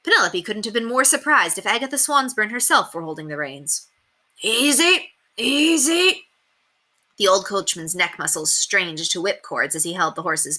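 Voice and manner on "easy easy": 1 soothing coachman. A narrator's reading. Coachman calming horses.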